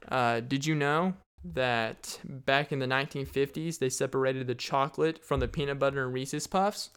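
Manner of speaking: usual speaking voice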